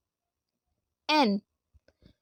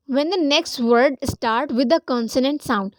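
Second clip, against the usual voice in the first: slow reading of rule; much slower than usual. Shown as a demonstration. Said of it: "reads rule slowly to class".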